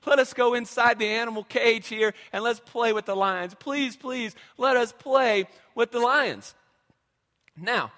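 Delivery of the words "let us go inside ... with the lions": lightly voiced child, higher, pleading to play with lions; mock childish begging, stretching the last please; begging kids. Kids beg dad at lion's den, light whiny plea. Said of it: "and they think".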